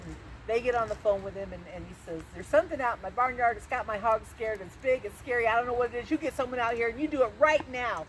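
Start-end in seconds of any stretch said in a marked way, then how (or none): 2.3-8.1 higher, louder frightened plea. Acted. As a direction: beg the police in a panic. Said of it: "he was so frightened".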